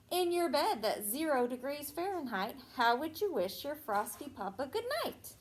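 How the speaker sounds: sing-song storybook reading; reading to children. Acted. Teacher reading a Christmas rhyme to a child. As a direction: read the rhyme to the little ones. Teacher reads picture book aloud.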